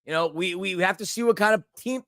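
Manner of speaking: talking with bad hiccups. Real, not acted. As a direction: push through the hiccups. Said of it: "These hiccups are getting pretty bad".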